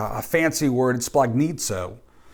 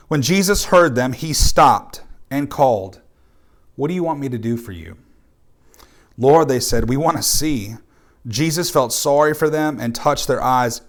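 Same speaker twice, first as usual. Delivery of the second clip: measured, slightly raised Bible reading voice; scripture reading; 3 dB louder than usual. A narrator's reading. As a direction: read the passage to the congregation. Reads the scripture passage aloud.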